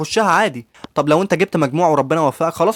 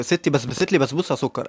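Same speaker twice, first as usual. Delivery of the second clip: shy first try; 4 semitones lower, 7 dB quieter than usual. Retold or imitated. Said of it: "قول ستي بسبست لي بسبوسة".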